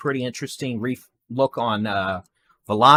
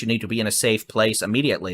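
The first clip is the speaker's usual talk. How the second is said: fast auctioneer patter; faster than usual. Real, not acted. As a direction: rattle it off like an auctioneer. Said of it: "uh, auctioneer voice".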